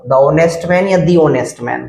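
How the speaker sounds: first the as "thuh", then the as "thee"; two readings of the, slowly. Shown as a demonstration. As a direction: contrast the short and long readings of the. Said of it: "दा आएगा या दी आएगा".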